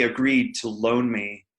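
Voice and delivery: "loan" stressed and drawn out slightly. Real, not acted. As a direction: lean on the word "loan". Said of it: "I put emphasis on the word loan".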